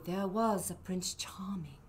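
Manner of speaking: whisper. Pretend. Hushed storytelling.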